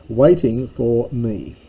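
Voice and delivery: a little laugh as you read it out; amused reading of the translation. Real, not acted.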